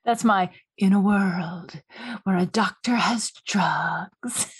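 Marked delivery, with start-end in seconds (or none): 0.8-1.7 movie announcer voice. Pretend. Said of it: "That's my movie announcer voices". 2.2-4.5 low, slow trailer voice with a breathy edge; dramatic movie trailer narrator; movie announcer voice. Pretend. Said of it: "That's my movie announcer voices".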